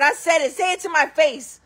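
defiant. Retold or imitated. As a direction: dare her to repeat it.

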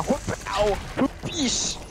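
high whooping impact noises; mock fight noises. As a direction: voice the blows like cartoon effects. Imitating hits during a fight.

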